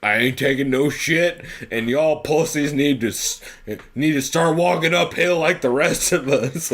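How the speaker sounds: lightly voiced tough Wyatt Earp type; a hint of a hard-as-nails cowboy; hard old cowboy. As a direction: growl it as a salty frontier lawman, half-serious. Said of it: "hard as fuck with his dope mustache".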